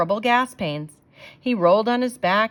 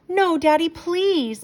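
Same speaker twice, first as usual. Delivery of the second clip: put-on high pleading children's cry; children pleading with their father, high and desperate; begging kids; 9 semitones higher, slower than usual. A narrator's reading. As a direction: beg father not to send the dog away. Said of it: "begged Betty and Billy".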